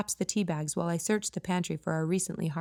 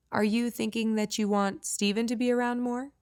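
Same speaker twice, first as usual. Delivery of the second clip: sweet and innocent; 5 semitones higher than usual. Acted. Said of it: "her voice sweet and innocent".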